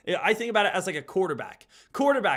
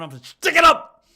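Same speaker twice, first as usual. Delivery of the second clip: mocking voice; 9 semitones higher, 12 dB louder than usual. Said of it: "That's how, that's how you sound".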